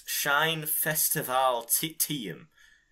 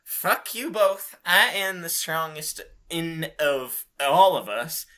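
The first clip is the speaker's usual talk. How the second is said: mild mock yell; 3 semitones higher, 4 dB louder than usual. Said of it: "yelled Rumia".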